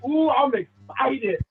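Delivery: slow, stretched-out excited "ooh"; excited pizzazz. Shown as a demonstration. Coach showing audience how to pitch, with pizzazz. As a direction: draw it out with a little pizzazz. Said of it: "say it with a little pizzazz".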